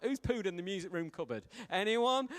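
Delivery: hammed-up head teacher calling out the culprit; teacher at assembly. Preacher playing the teacher demanding a confession at assembly, rising to a loud call.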